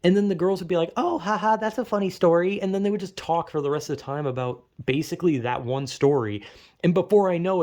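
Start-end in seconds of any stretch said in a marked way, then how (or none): 1.0-2.6 mock giggly girl. Girls reacting giggly.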